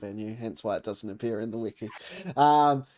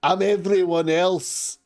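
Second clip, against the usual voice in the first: slow, louder generic NPC voice; a slower, louder all-purpose character voice; stock everyone else voice; 7 semitones higher, 7 dB louder, slower than usual. Shown as a demonstration. GM demos the voice he gives every other NPC, slow. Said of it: "and then there's".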